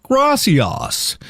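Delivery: exaggerated high-pitched tourist Spanish; mock Spanish accent. Customer in a Mexican restaurant, mock Spanish accent. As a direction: put on an overdone Spanish accent. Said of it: "slip into an accent".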